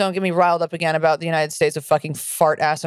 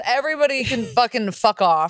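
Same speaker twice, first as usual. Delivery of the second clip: higher, riled outburst breaking into a laugh; 4 semitones higher than usual. Real, not acted. Co-host owning up to her rant, riled with a laugh. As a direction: dismiss everybody, worked up but laughing. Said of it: "I'm riled".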